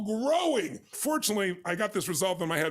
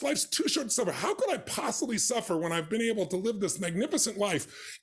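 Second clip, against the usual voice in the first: "Life's too short to suffer" with too raised and a laugh; laughing emphasis. Shown as a demonstration. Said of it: "To me, that's where it starts".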